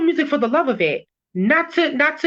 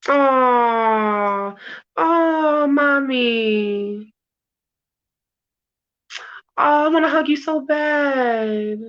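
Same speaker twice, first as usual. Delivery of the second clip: moved, emotional; much slower than usual. Real, not acted. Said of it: "You getting emotional, babe?".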